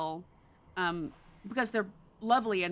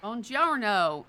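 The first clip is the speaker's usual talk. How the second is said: hammed Italian; 4 semitones higher, 5 dB louder, much slower than usual. Shown as a demonstration. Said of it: "I can't, I can't".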